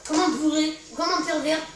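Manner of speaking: loud mocking play-by-play; mock the opponent loudly.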